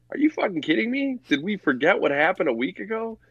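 incredulous, fed up with the fans; exasperated rant. Real, not acted. Fed-up fan ranting about his team's hopes, incredulous. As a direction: voice shoots way up in disbelief.

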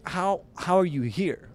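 high, slow, stammered disbelief; retold astonishment, pitched well up; incredulous. Stunned pair questioning the gatecrasher, incredulous. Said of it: "they're just so confused".

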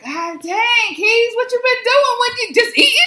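high, drawn-out mock astonishment; astonished mimicry. Mimicking folks back home reacting.

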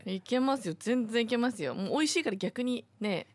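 talking while munching crackers; words around a crunchy bite; crunching rice crackers. Real, not acted. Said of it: "ポリポリ食べ始めて".

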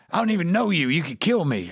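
a coked-up man panicking he could be killed; paranoid panic. Retold or imitated. Wasted Sam panicking in the car at his driver. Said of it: "He's like".

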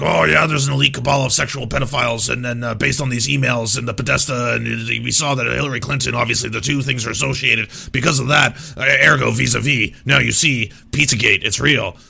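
loud ranting conspiracy voice; mocking Alex Jones. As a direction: rant like a conspiracy host. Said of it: "be like".

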